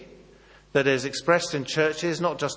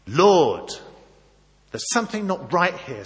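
Moses pleading with God; 3 semitones higher, 4 dB louder than usual. Retold or imitated. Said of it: "says Moses".

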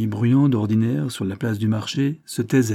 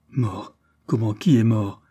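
haletante. Acted. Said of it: "s'écria-t-elle haletante".

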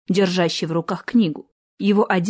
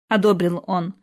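ordinary delivery

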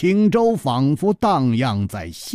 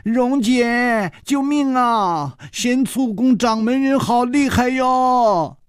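much higher, hammed-up, laughing plea for rescue; mock cry for help; 12 semitones higher, slower than usual. The giggling girl begs her sister to save her from the jealous one. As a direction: squeal for help in mock terror. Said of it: "宋田儿笑得缩成了一团".

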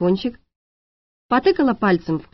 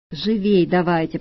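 mild hiss; 2 semitones lower than usual. Acted. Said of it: "прошипел парень".

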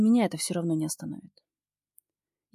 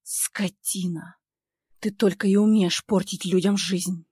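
презрительно; 5 dB louder, slower than usual. Acted. Продолжает презрительно.

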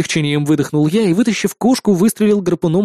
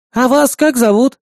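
put-on curious old lady; 6 semitones higher than usual. A narrator's reading. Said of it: "спросила вторая старушка".

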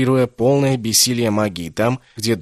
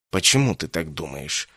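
lower, softer irritated snap; 5 semitones lower, 3 dB quieter than usual. Acted. Insanna, irritated by the refusal, snapping. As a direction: bite the question off. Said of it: "раздражённо бросил Инсанна".

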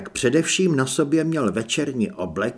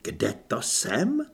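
irritated mimicry; 3 dB quieter, slower than usual. A narrator's reading. Perdita inwardly grinds at Kristýna's words, irritated echo. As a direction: repeat it slowly and sceptically, through gritted teeth. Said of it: "Perdita zaskřípala Anežčinými zuby".

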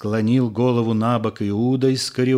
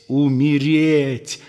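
forceful; 3 semitones higher, slower than usual. Acted. Judas urging the disciples to die, forceful. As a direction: drive the word in.

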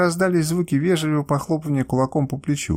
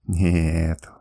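smiling; 7 semitones lower than usual. A narrator's reading. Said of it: "улыбаясь".

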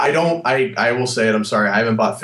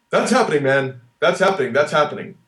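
Rock impression; 2 semitones higher than usual. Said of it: "try and do an impression of The Rock".

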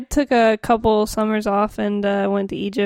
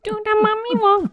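high hollow mummy voice; 10 semitones higher than usual. Pretend. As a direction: moan it like a mummy. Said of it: "mummy impression".

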